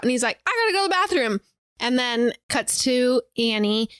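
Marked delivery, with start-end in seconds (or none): 0.5-1.4 high, mildly panicked excuse; imitated freak-out. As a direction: blurt it in mock panic, pitched up. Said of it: "he freaks out".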